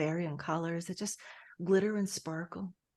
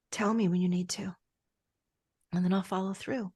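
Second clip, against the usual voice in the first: whisper; 2 semitones lower than usual. Acted. Promise to the heart.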